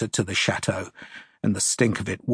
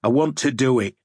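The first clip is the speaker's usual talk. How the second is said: surly; 2 semitones higher, 4 dB louder, faster than usual. Acted. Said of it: "the first man said surlily".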